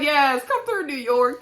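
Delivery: loud, high cheer; cheering on New York from the couch. Retold or imitated. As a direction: hype her up loudly. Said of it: "I was like".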